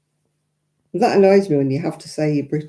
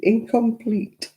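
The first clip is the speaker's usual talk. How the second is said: lightly voiced official rejection, slow and higher; form sent back; 5 semitones higher, slower than usual. Form returned to applicant, slow mock-official voice. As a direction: read it out slowly like a form verdict. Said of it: "send the form back saying".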